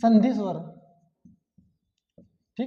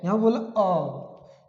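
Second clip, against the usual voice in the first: slow demo; 3 semitones lower, much slower than usual. Shown as a demonstration. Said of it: "यहाँ पे बोला ए".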